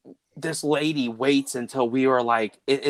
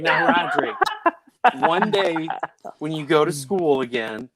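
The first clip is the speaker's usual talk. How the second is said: laughing scold; 4 semitones higher than usual. Real, not acted. Scolding son while laughing.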